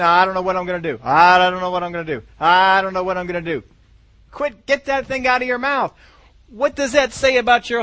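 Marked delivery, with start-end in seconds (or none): 0.0-3.6 louder, fretful repeated moan; a hopeless believer moaning, mock despair; mock worried whining. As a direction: whine it like a helpless worrier. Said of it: "stop going around saying".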